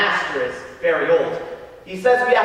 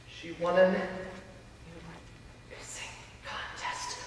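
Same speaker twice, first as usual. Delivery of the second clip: halting, then a slow whisper; embarrassed hush; 3 semitones lower, 15 dB quieter than usual. Acted. Frankie admits Emer's contest to the priest, whispering haltingly. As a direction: whisper the rude words reluctantly.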